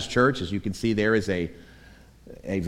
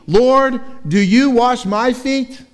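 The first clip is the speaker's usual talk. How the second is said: much higher and louder, slow incredulous cry; startled disbelieving outcry; Peter's shocked question; 12 semitones higher, 8 dB louder, slower than usual. Acted. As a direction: voice Peter aghast that the Lord would stoop. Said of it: "more emphatic".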